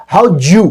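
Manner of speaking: "how'd you" run together as howdju; squeezed blend. Shown as a demonstration. Teacher showing the merged form, blended. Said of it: "एक syllable बनाया".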